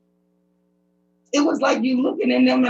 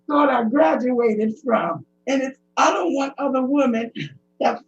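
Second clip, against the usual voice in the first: tearful. Real, not acted. Distressed testimony, crying.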